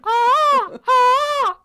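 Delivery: loud, high peacock scream; peacock impression. Shown as a demonstration. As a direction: shriek like a peacock. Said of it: "It's quite a good peacock impression".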